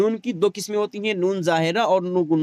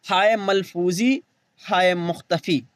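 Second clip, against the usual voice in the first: slow term; slower than usual. Shown as a demonstration. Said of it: "हा की दो किस्में".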